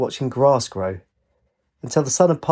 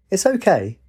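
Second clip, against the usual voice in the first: calm; 8 semitones higher than usual. A narrator's reading. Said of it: "Blue said calmly".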